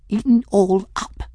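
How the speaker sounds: high-pitched fearful addition; small frightened voice. A narrator's reading. Folly dreading being eaten, high small voice. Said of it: "Folly said in a small voice".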